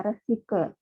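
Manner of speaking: "recycle" with an English-like -kel ending; "recycle" said wrongly, ending in -kel; imitated mispronunciation. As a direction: quote the wrong "recycle", neither French nor English. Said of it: "Ini c'est pas en anglais".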